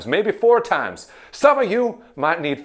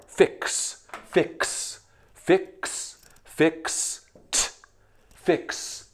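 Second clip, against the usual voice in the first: unvoiced Fix and Fixed; whispered Fix; 2 semitones higher, 6 dB quieter, much slower than usual. Shown as a demonstration. Teacher quietly trying out the ending. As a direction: breathe the word out. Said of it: "modelling the word".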